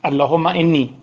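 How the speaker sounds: slow chanted supplication; slow, devout Arabic prayer; prayer recitation. Acted. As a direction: intone it humbly before God.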